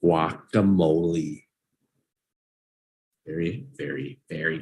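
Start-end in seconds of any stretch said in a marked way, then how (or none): 0.0-1.4 slow repeat. Shown as a demonstration. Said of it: "But say it with me, peeps".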